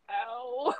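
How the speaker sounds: high, soft mock "ow"; pained ow. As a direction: let out a small, high yelp of pain. Acts being punched in story.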